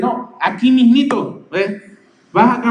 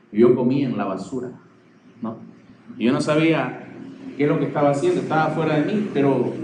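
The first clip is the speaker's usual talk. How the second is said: lightly acted dazed confession, lowered voice; lucidity regained; 6 semitones lower, 3 dB quieter than usual. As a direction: act out someone lightly dazed, coming to their senses. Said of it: "como esos loquitos ... recobran su lucidez y dicen".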